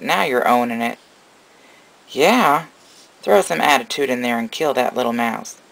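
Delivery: lilting encouragement to a little animal; coaxing a pet. Real, not acted. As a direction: cheer the little one on, cooing. Cheering the snake on at feeding.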